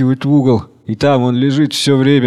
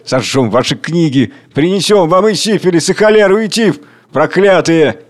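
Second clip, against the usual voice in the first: furious threats; 3 semitones higher, 4 dB louder than usual. Acted. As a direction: hurl threats upward. Crowd threatens the rich.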